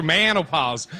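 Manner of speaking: drawn-out Southern twang on menopause; hint of a Southern accent. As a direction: say it with a light Southern drawl. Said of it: "It sounds like a southern".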